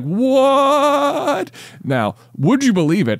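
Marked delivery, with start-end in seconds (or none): 0.0-1.5 a high cartoonish squeak of disbelief; much higher, slow, comic shock; mock-shocked high squeal; shocked yelp. Shocked moment in retold story.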